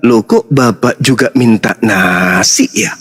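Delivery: mock surprise. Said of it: "maka kita akan mengatakan".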